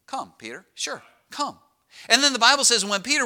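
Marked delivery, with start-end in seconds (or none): 0.1-1.6 very soft, laid-back invitation; calm, cool. Acted. Jesus telling Peter to step onto the water, calm and cool. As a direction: invite quietly, with no urgency at all. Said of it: "calm, cool".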